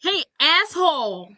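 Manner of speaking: high-pitched mock confrontation; mock angry call-out. Paige confronting Jack over her purse, mock anger. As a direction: call him out, hammed-up and high.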